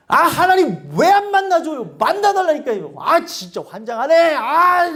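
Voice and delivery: impatient petulant griping at heaven; mock angry prayer. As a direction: nag God like a spoiled child. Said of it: "막 이런 게 아니라는 거예요".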